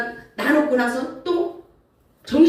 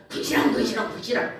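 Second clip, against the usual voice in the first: grumbling. Retold or imitated. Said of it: "막 이렇게 구시랑".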